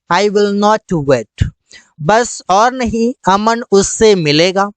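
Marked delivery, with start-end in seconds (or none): 0.1-1.5 stretched out very slowly; slow clear English. Shown as a demonstration. Teacher giving the English phrase slowly. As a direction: drill it word by word. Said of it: "That's it".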